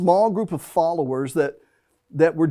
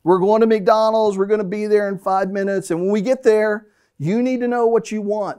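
brisk, raised warning to the family; a dad's impatient heads-up to the kids in the car; 4 semitones higher than usual. Retold or imitated. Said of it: "And so I'd be like".

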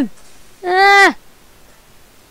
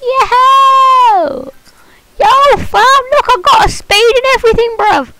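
excited gamer shout; 4 semitones higher than usual. Real, not acted. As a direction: yell it at the screen, hyped. Kid gamer shouting at the game.

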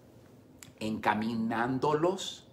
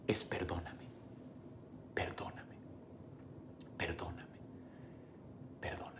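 each perdóname softer until it is only breath; fading whisper; 7 semitones lower, 16 dB quieter than usual. Acted. Pastor voicing the word forgiveness, fading to a whisper. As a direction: let the plea fade into a whisper.

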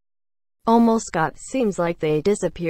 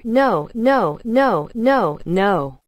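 acted protest, moderately raised; yelled; 3 semitones higher, much slower than usual. A narrator's reading. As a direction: cry out each refusal, easing on the last. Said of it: "Gally yelled".

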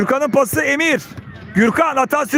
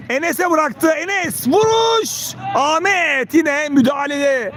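excited commentator; 3 semitones higher, slower than usual. Real, not acted. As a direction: lift the voice for the shot. Shot on goal.

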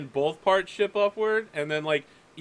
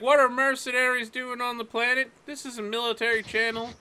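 higher, offended voice; indignant midshipman; 6 semitones higher than usual. Acted. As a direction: demand answers like an officer on duty. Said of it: "He's like".

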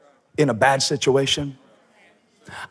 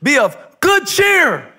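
Jesus reassuring; 3 dB louder, slower than usual. Acted. Jesus calling to the disciples in the storm, loud then calm. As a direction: call out, then settle them gently. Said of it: "in Greek it's".

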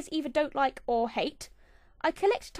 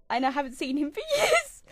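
half-joking sob breaking into a laugh; mock sob. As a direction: pretend to weep over the lost spider Biggie, then laugh. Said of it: "Okay, I'm over it".

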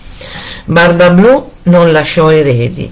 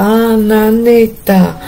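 calling out; 6 semitones higher than usual. A narrator's reading. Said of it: "le gridava".

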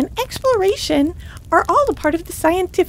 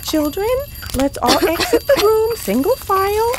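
louder call across the room; 4 semitones higher, 4 dB louder than usual. Acted. Teacher calling the coughing kids out of the room, loud call. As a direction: call the class to the door. Teacher evacuates smoky class.

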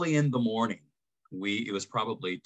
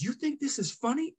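imitated drill sergeant. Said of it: "And he said".

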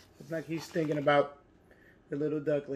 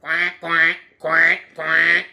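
duck quacking; 7 dB louder, much slower than usual. Pretend. Duck voiced in story.

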